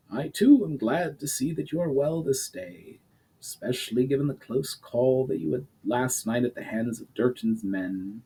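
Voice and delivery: lightly voiced stern duke, measured; a hint of a grave old lord; stern noble father. The Duke answers his daughter.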